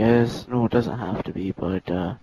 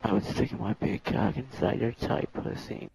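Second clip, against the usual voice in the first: husky whisper; 7 dB quieter than usual. Acted. Dirty talk on request.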